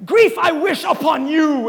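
slow, half-shouted mock grief; a hammed-up stranger cursing you; mock shouted curse. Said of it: "they're like".

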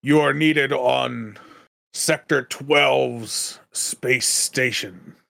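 slow, lightly acted summons; upset client. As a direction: deliver a stiff summons, word by word. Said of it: "he looks rather upset and he goes".

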